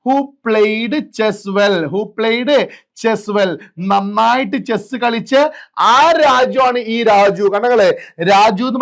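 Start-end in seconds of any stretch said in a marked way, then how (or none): 0.0-3.5 drawn-out, word by word reading; slow classroom dictation. Shown as a demonstration. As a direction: read it very slowly for the class. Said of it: "played, കണ്ട?".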